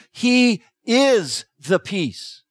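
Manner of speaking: very slow, "is" stressed and falling; emphatic. Shown as a demonstration. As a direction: press down on "is", spacing each word. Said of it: "The emphatic emphasis being placed there".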